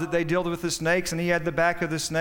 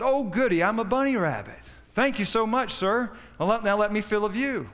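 much higher, gleeful bunny voice; delighted rabbit; 5 semitones higher than usual. Acted. Rabbit thanks the snake for telling him, high and gleeful. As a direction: squeal with joy at being a bunny.

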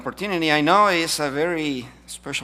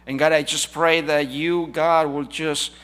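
prayer; 4 dB louder than usual. Acted. Leads congregation in prayer.

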